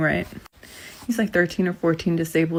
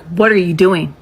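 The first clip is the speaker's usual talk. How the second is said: stern demand; 6 dB louder than usual. Retold or imitated. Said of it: "I'm not mean, but I'm stern".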